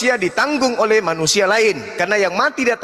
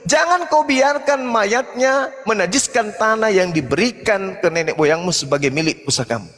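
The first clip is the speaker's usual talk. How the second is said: scripture declamation; 2 semitones higher than usual. Real, not acted.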